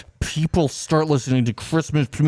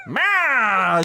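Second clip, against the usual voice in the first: cat meow; 7 semitones higher, 5 dB louder than usual. Retold or imitated. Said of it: "And then she goes".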